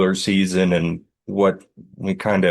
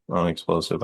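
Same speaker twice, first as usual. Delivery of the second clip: softer, doubtful repeat of Unexplosive; unsure try; 6 dB quieter, faster than usual. Shown as a demonstration. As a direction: test the word Unexplosive quietly, unsure it is real. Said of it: "I don't know if that's a word".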